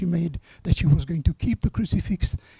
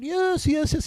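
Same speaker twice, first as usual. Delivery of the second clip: high eager crowd answer; lightly voiced crowd shouting yes; crowd calling back; 9 semitones higher, slower than usual. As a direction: voice the cheering crowd from below.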